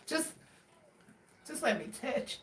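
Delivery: hushed pleading fading to almost nothing; mock begging. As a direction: beg pitifully, fading away. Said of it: "they're like".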